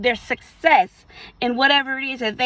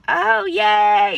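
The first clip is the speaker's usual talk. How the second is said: high, loud mock cheer; excited; 7 semitones higher, 5 dB louder than usual. Excited friend sharing good news, high mock cheer. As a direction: squeal it like happy news. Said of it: "come to you all excited".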